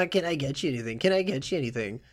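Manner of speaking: mock the waiter with a laugh; lightly jeering echo, laugh leading in. Jeering customers mock the waiter's question, mocking. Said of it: "start laughing and mocking you".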